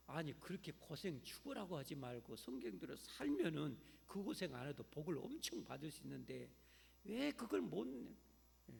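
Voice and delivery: ordinary delivery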